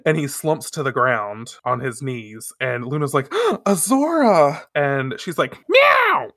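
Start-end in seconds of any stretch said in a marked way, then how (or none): 3.5-4.6 higher-pitched acted exclamation of a name; mock alarmed cry. Podcaster voices cat seeing him collapse, mock alarm. 5.7-6.3 very high, loud imitated meow; cat meow. Podcaster acts the cat bounding to him, shrill mock meow.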